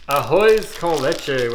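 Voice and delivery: "Ahoy's con leche" said slowly with clumsy English vowels, no Spanish r; bad Spanish accent. Real, not acted. Reviewer names the ice cream flavor, in bad Spanish. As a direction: mangle "Ahoy's con leche" like a gringo reading the label. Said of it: "with my bad accent".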